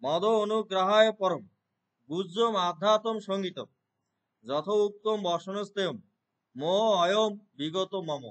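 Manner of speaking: slow chanted recitation of মদ অনুগ্রহায় পরম; reciting the corrected verse for the student, slow chant. Shown as a demonstration. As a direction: intone the Sanskrit verse slowly. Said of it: "সেই জন্য হবে মদ অনুগ্রাহায় পরম".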